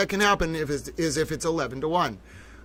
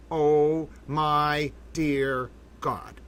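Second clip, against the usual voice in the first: stunned awe; much slower than usual. Real, not acted. Stunned streamer after jury reversal.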